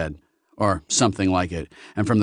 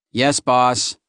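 high, nasal monster voice; 4 semitones higher, 4 dB louder than usual. Acted. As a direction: squeeze it up through the nose. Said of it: "in a high nasal voice".

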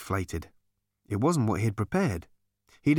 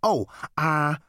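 hesitant, pitched-up stalling; sheepish; 5 semitones higher than usual. A narrator's reading. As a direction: stall with mild embarrassment. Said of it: "with a sheepish look".

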